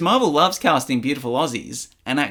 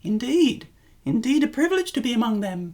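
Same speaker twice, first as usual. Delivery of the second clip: high-pitched British accent; British accent practice; 6 semitones higher than usual. Shown as a demonstration. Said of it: "practice my British accent".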